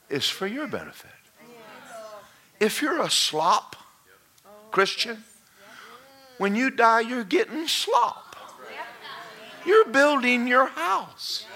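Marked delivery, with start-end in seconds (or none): 2.6-11.4 preaching shout. Real, not acted. Pastor warning slack Christians, shouting high and slow. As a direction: bring it home to the church.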